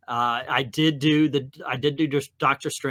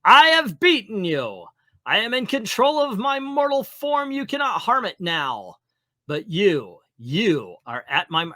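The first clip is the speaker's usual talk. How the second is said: loud, raised triumphant sneer; gloating villain; 6 semitones higher, 4 dB louder than usual. Acted. Baron Mordo gloating over Strange, loud triumphant villain voice. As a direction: crow over the beaten hero.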